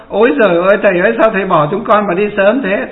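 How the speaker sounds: lightly imitating a grieving disciple's lament; half-hearted mock cry over the master's death; a touch of theatrical grief, not real tears; mock mourning wail. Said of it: "Đến khóc á".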